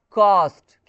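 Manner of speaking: "कॉस्ट" loud, with a long open "aa"; long broad A. Shown as a demonstration. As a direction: model "कॉस्ट" with a drawn open vowel. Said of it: "pronunciation होगा वो क्या होगा".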